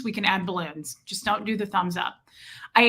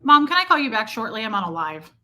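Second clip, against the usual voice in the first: dodging a caller; 3 dB louder than usual. Real, not acted. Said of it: "Sorry, my mom's calling".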